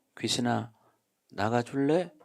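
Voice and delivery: very soft, tender, mild and gentle voice. Demonstrating telling a ghost to leave very politely: very soft and gentle. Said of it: "아주 부드럽게".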